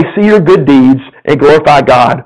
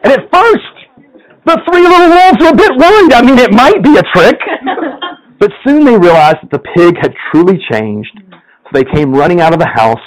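lively storyteller reading a fable to the congregation; story narration; 3 semitones higher than usual. A narrator's reading. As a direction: tell it like a bedtime tale, playful. Pastor reads a story aloud.

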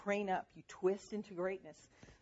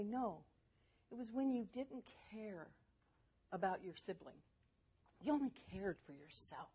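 measured, softer mom voice, imitated; calm explanation; 8 dB quieter than usual. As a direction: explain it calmly with pauses, as to a child. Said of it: "but I could calmly say".

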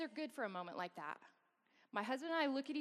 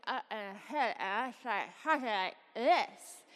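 strained, slow gasps, louder at the end; gasping for air; 6 dB louder, slower than usual. Retold or imitated. Mother in surgery acting out her lungs shutting down, gasping. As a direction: push out choked gasping sounds.

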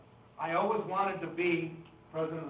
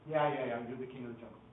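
humoring; 4 semitones lower, faster than usual. Acted. Monkeys humoring the self-important lion, dismissive and placating. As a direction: humor him just to be rid of him. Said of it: "We've gotta humor this guy".

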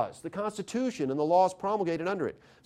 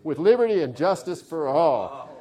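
recited pledge; 4 semitones lower than usual. Shown as a demonstration. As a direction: Pledge of Allegiance cadence, measured and declamatory. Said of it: "I'm gonna say this ... same cadences".

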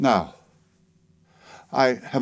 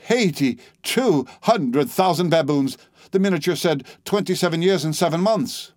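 stagger and protest in disbelief; aghast outburst; 6 semitones higher than usual. Acted. Narrator staggering in disbelief at the old woman, aghast.

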